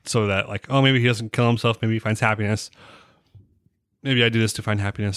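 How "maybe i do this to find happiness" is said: speaking through a beer burp; a burp slips into the words. Real, not acted. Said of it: "Sorry, burp".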